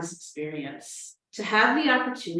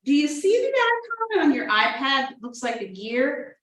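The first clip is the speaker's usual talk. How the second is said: patient tech helper; 5 semitones higher than usual. Acted. Acting out virtual tech help.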